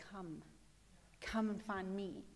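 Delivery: soft, low, slow beckoning; hushed, inviting voice of God; gentle invitation. Acted. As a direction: invite them in tenderly, unhurried. God's invitation voiced softly.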